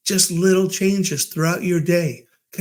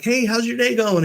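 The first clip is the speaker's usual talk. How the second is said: high, friendly check-in; cheery greeting; 7 semitones higher than usual. Retold or imitated. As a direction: ask brightly with pitch lifted. Cheerfully greeting a bellman, retold.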